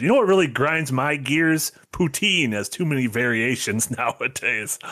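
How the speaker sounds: mildly mock the message as an old man's rant; lightly voiced old-man complaint; old man yelling at clouds. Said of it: "an old man just yelling at clouds".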